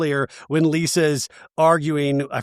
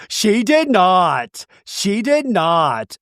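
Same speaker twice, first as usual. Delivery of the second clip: slow, raised-pitch mock denial; emphatic denial; 4 semitones higher, 3 dB louder, much slower than usual. Retelling a cast member's reaction to the comparison, emphatic denial. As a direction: draw out an indignant retold denial. Retold shocked denial in an argument.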